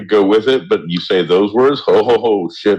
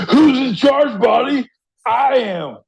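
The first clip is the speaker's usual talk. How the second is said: bossy inner voice; 13 semitones higher than usual. Retold or imitated. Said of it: "I'm like".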